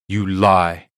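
loud flat accusation; accusing. Acted. Daisy accusing Silk Tongue, loud and firm. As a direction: call out the lie. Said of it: "Daisy said".

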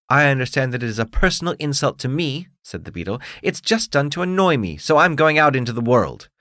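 haughty bug demanding his due; beetle voice. Acted. Beetle's indignant outburst.

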